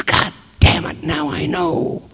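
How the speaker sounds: high, choked voice, imitating tears; crying. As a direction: act out bursting into tearful realisation. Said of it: "that's when he starts crying".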